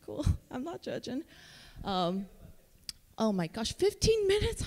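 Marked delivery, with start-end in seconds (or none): 3.7-4.6 high startled exclamation; startled squeak. Real, not acted. Speaker realizing fifteen minutes remain, startled. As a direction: yelp it up high at the clock. Noticing time is nearly up.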